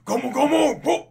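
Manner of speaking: high, loud cartoon attack shout; attack call. Anime hero winding up his attack, high loud call. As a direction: draw out the call, then pop the end.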